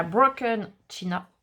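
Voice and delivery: slow English product name in a French accent. Real, not acted. Naming an ink for craft viewers, French-accented English. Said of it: "Mon accent anglais fait rire Lola".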